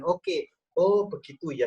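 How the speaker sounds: understanding response. Shown as a demonstration. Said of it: "respon spontan".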